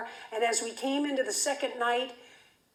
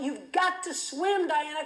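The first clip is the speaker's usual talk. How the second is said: retold yelling; 4 semitones higher than usual. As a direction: call out to a swimmer from the boat. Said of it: "Bonnie's whistling and yelling out".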